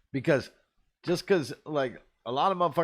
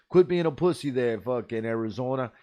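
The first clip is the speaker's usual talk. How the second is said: louder mocking boss, teasing; mock boss yell; 5 dB louder than usual. Massachusetts boss teasing his driver, a louder mocking yell. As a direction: razz the new guy from Arizona. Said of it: "He's like".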